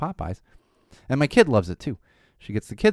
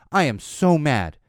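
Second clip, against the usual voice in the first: imitated child's fury, loud and high; mock-mad, emphatic and pitched up; mad little kid; 6 semitones higher, 3 dB louder than usual. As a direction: mimic a five-year-old's indignant declaration, hitting the words hard. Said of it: "she said it just like".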